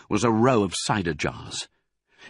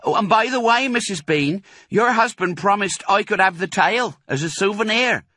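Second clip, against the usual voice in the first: Mabel voice; 12 semitones higher, 5 dB louder than usual. A narrator's reading. Mabel calling upstairs.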